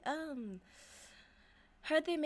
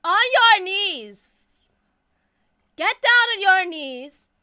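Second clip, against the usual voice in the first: dark lord; 5 semitones higher, 14 dB louder, slower than usual. Acted. Commanding bow.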